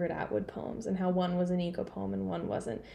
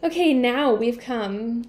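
scholarly voice; 2 semitones higher, 6 dB louder, slower than usual. Retold or imitated. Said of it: "that's my scholarly voice".

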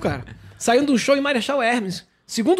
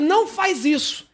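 higher, drawn-out mock yell; retold intended yell; 4 semitones higher, slower than usual. Passenger wants to stop the fleeing driver, mock yell. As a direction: stretch it like a plea to stop, without full volume. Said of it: "eu queria gritar pra ele".

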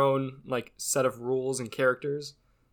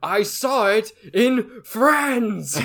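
clueless guy voice; 8 semitones higher, 6 dB louder, much slower than usual. Pretend. Playing the clueless romantic.

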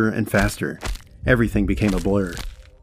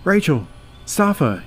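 higher-pitched shout of names; 8 semitones higher, slower than usual. A narrator's reading. Father shouting for his girls in a silent house. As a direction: call out high, without much extra volume. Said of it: "he shouted".

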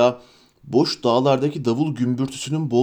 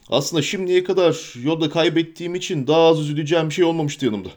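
lightly raised, quick grumble; a hint of a grumpy hobbit; grumbling Sam; 3 semitones higher than usual.

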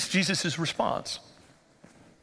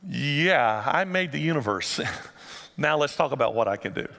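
chuckling; 4 semitones lower than usual. Retold or imitated. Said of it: "more with a chuckle".

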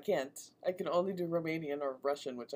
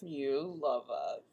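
drawn out; 3 semitones lower, much slower than usual. Real, not acted. Teasing address to listeners.

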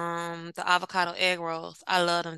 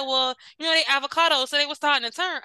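put-on boyfriend excuse; 5 semitones higher than usual. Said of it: "He said".

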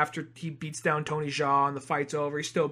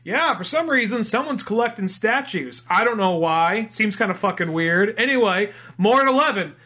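mock TV newscaster, higher and louder; news anchor; 4 semitones higher, 3 dB louder than usual. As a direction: read it like a hammed-up evening news anchor. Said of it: "we just cut to the news".

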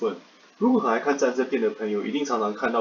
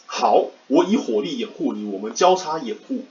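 cover me shout; 2 semitones higher, 3 dB louder than usual. Retold or imitated. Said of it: "我这边来模仿一下两个人吼".

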